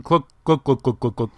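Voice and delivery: lightly mimicked gulping sounds; playful glug-glug of someone downing a drink; gulping noises. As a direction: say each glug like swallowing a drink fast. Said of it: "and then she just went".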